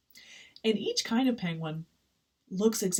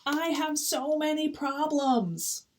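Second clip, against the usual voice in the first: slow, higher-pitched penguin moan; whiny complaint; 8 semitones higher, slower than usual. Acted. Complaining penguin to anyone listening, slow whine. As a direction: draw out the woe, higher.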